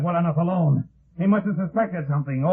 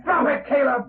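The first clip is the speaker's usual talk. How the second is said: shouted threat; 13 semitones higher, slower than usual. Acted. Threatening a killer at gunpoint.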